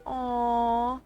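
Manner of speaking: slow, mocking coo; smug taunt. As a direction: savour the cruelty sweetly. Belle smugly taunts.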